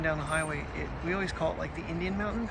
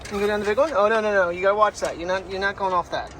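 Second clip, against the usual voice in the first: warning the dog; 3 semitones higher, 7 dB louder than usual. Real, not acted. Stopping dog at the big slide.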